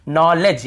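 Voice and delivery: "नॉलेज" sounded out in two parts; demonstrated pronunciation. Shown as a demonstration. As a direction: say "नॉलेज" deliberately as nol-lej, D silent. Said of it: "यहाँ पर भी डी silent है".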